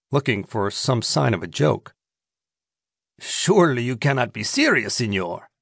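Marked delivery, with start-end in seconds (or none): 3.2-5.5 said warily. Acted. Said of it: "the Mexican said warily".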